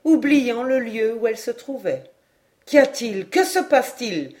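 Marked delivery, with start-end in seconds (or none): 2.7-4.3 urgent, somewhat louder questions; calling out. Acted. Everyone in the room crying out questions, urgent. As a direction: ask anxiously over the noise. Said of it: "cria-t-on de toutes parts".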